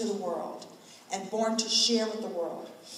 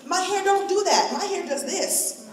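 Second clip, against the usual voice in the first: proud declaration; 9 semitones higher, 5 dB louder than usual. Real, not acted. Proud declaration about her hair.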